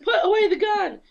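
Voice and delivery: high, loud comic-book shout; mock-exasperated holler; acted alarmed yell. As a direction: yell it like a hammed-up frantic order. Acting out a hero yelling.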